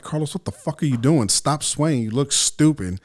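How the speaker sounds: mock-stern inner reprimand; self-scolding. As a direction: act out an exasperated inner voice ordering you to stop. Scolding himself inside his head.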